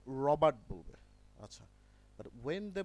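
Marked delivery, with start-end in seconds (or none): 0.1-0.9 রবার্ট with the middle r dropped; British Robert. Shown as a demonstration. Teacher showing how the British say the name. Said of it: "কিন্তু বলার সময় এটাকে".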